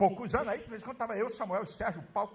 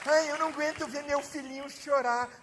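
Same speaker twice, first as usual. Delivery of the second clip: a hint of a doting parent, softer; mock soft parent; 4 dB quieter than usual. Mocking parents who can't bear a crying child, softer. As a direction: mimic the parent who gives in to everything.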